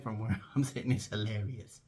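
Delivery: low, amused comeback with a laugh in it. Retold or imitated. Employee laughing at the boss's trouble, amused. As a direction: chuckle through the words. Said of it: "Okay, I am laughing".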